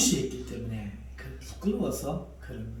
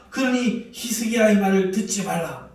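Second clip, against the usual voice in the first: louder, with a laugh, the stress on 그러니; laughing warning; 4 semitones higher, 6 dB louder than usual. Acted. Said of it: "큰 소리로 말합니다".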